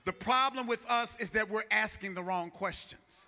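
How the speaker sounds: loud, emphatic pulpit declaration; preaching. Real, not acted. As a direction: proclaim it firmly to the whole church. Preaches at full force.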